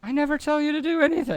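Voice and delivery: high, fast, put-on character voice; indignant protest. Character denying he gives orders, high fast indignant squeak. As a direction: squeak out an offended denial.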